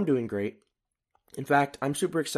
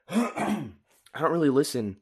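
coffee in the throat; talking through a sip of coffee; while sipping a drink; 3 semitones higher than usual. Real, not acted. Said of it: "Sorry, I'm drinking coffee".

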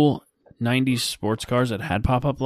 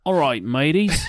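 put-on rough try at an Australian accent; mock Australian accent; 3 semitones higher, 3 dB louder than usual. Co-host trying out Australian for his podcast partner, mock Australian accent. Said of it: "The Australian?".

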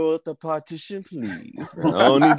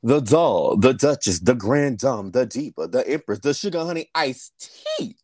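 grand diva entrance; 3 dB louder, slower than usual. Acted. Grand entrance title roll call.

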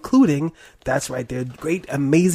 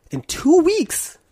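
dramatic suspense. Acted. Dramatic teaser.

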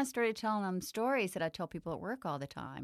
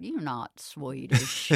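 laughing mock guy voice; 5 semitones lower, much slower than usual. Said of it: "some guy said".

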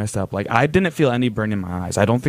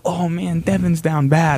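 mocking scouts; 6 semitones higher, slower than usual. Scouts mocking sick friend.

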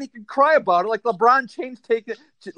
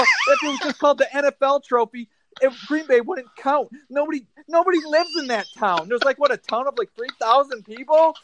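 higher heated rant; angry rant; 4 semitones higher than usual. Real, not acted. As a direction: work yourself up, voice climbing. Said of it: "You brought the noise".

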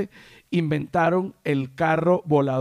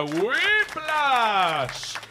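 excited announcement; 8 semitones higher than usual. Acted. Announcing sponsor name.

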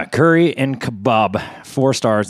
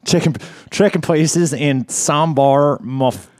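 angry reviewer. Acted. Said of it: "You're gonna make me break character".

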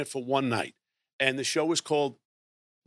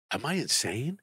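panicked self-doubt. Retold or imitated. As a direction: replay the moment of panic backstage. Panicked self-talk before show.

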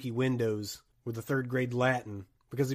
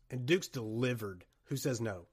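usual speaking voice

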